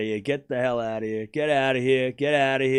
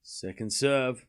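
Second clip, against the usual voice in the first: Second serve drawn out slowly and softer; hushed slow Second serve; slow soft call; 2 semitones lower, 4 dB quieter, much slower than usual. Shown as a demonstration. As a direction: stretch Second serve, savouring it. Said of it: "second serve said first quickly".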